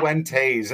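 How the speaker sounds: Fuentes said as foo-WEN-tayz; three-syllable Fuentes. Retold or imitated. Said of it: "like, a three-syllable thing".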